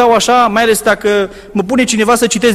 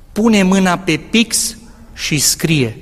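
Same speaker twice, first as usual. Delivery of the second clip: a calm voice speaking in his ear; slow, gentle divine whisper in his ear; voice of God; much slower than usual. Retold or imitated. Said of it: "aud o voce".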